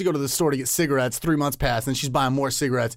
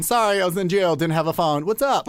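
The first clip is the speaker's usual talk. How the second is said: higher, playful offhand apology; mock breezy excuse; 5 semitones higher, 3 dB louder than usual. Comedian imagining girl's jail excuse, mock casual. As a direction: act out a flimsy excuse, pitched up.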